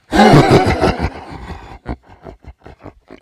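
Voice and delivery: lion roar. Pretend. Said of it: "You sound like a lion right now".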